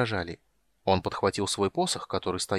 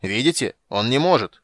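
louder accusing cry; shouting knight; 7 dB louder than usual. Acted. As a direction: call it out to the court. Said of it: "закричал Стурм".

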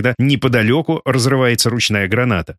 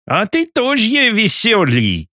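put-on high, slow German-accented Russian; German struggling with Russian words; broken Russian, German accent; 9 semitones higher, much slower than usual. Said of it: "коверкая русские слова".

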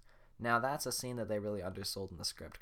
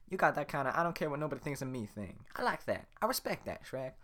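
excited Donkey; 4 semitones higher, 3 dB louder than usual. Acted. Donkey repeats line.

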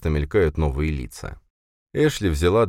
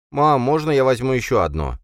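put-on whining kid; 8 semitones higher, 4 dB louder than usual. A narrator's reading. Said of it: "заныл он".

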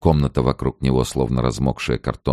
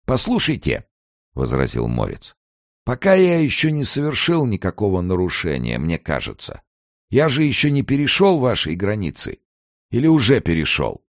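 put-on higher, anxious old man protest; pleading old emigrant; 9 semitones higher than usual. A narrator's reading. Morets argues with the gatekeeper about the border, higher anxious voice.

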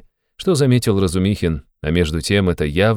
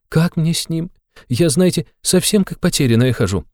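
high, agitated mother's voice; a mother spilling her worries, pitched high; fretting mother; 7 semitones higher than usual. A narrator's reading. Mother asks for advice.

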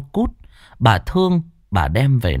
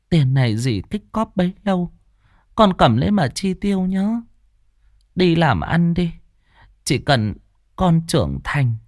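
tender aunt; 5 semitones higher than usual. Acted. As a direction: give him her savings lovingly. Aunt gives money tearfully. (giọng bà nghẹn ngào)

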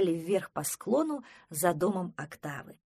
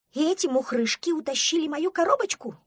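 high, loud duckling alarm; alarmed question; 9 semitones higher, 6 dB louder than usual. Acted. Duckling suspects creatures took his box, alarmed question. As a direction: ask it pitched up and agitated.

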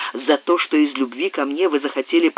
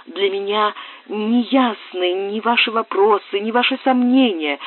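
голос Сюзанны; 7 semitones higher than usual. Acted. Сюзанна с надеждой отвечает.

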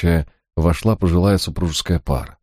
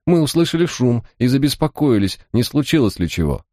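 high squeaky nervous voice; thin anxious squeak, fretting; 8 semitones higher than usual. A narrator's reading. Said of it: "писклявым голосом ответил незваный гость".

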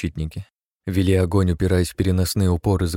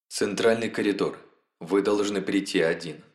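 eerie hive voice; 4 dB quieter than usual. Acted. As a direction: coldly set the terms. Hive sets the meeting.

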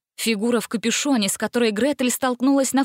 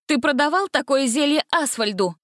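higher, stern interrogation; stern question; 6 semitones higher than usual. A narrator's reading. Gretel sternly questioning the captive villain. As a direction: demand it sternly. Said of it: "строго спросила Гретель".

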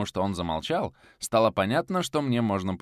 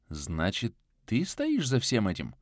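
stunned. Acted. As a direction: ask it in shock. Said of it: "Ошарашенно произнёс я".

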